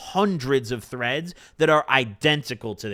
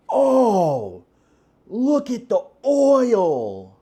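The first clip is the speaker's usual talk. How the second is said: amazed; 7 semitones higher, 5 dB louder, much slower than usual. Real, not acted. Opening vape, seeing dark oil.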